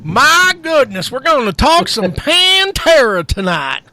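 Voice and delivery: drawn-out Southern redneck drawl; redneck accent. Pretend. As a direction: lay on a thick redneck accent. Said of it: "your redneck accent".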